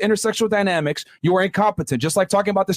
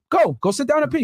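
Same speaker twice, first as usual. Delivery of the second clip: higher, raised taunting shout; 4 semitones higher than usual. Real, not acted. Debater shouting at his rival to go away, a raised taunting shout. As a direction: yell it at him to get lost.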